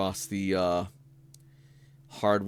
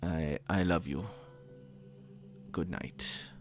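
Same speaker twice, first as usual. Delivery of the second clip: put-on older man voice. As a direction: leave a fond, hesitant message. GM plays Tanaka's voicemail.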